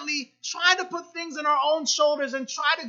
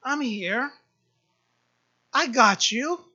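God reassuring; 3 semitones lower than usual. Retold or imitated. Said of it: "but He's saying".

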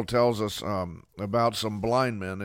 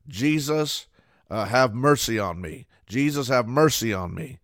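loud pleading call, rising at the ends; a blind man calling to Jesus over the crowd; crying out louder; 3 dB louder than usual. Retold or imitated. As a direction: beg for mercy, louder each time. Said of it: "he got louder and louder".

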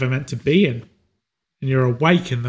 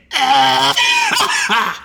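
dying laugh; 10 semitones higher than usual. Acted. Dying man's final laugh.

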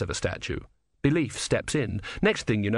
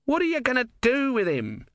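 squeaky tortoise god; 14 semitones higher than usual. A narrator's reading. Om questions Brother.

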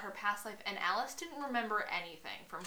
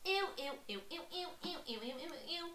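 repeated, softer squeals of disgust; higher, squeamish chant; grossed out; 6 semitones higher, 6 dB quieter, faster than usual. Real, not acted. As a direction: recoil in playful disgust. Disgusted by the line she read.

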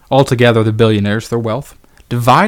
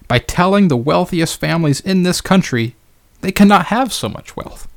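put-on orate it in Bernie's Brooklyn accent, pitched up; Bernie Sanders accent; 4 semitones higher than usual. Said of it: "This is what Bernie Sanders said".

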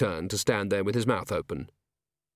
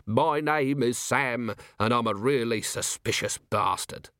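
lightly voiced weary commander explaining; wry, exasperated watch commander; 4 semitones higher than usual. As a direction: spell it out with dry, lively impatience.

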